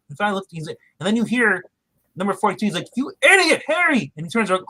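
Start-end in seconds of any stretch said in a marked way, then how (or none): 3.0-4.1 very high squeaky yell; octopus yelling. Retold or imitated. Octopus yelling at Harry from the tank, high squeak. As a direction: screech it like a cartoon octopus.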